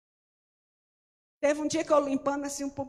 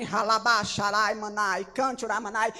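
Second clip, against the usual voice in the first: mock speaking in tongues; 3 semitones lower, 5 dB louder than usual. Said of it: "quem pega o microfone".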